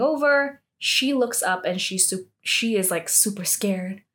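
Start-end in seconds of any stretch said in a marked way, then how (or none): 3.1-4.0 hushed, scared whisper; breath only, a frightened hush. Pretend. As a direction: whisper it like she's hiding. Describing Suryeon hiding, terrified.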